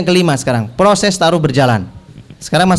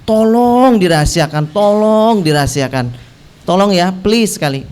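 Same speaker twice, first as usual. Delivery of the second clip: acted earnest entreaty; pleading; 2 semitones higher than usual. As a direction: beg with a long stretch on "tolong". Acting out confidential request for information.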